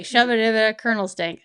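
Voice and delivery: playful nonsense mumbling; imitated mumble. Widow recalling how Ryan used to joke, imitated mumble. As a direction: imitate someone mumbling made-up words. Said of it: "he was doing a mumble".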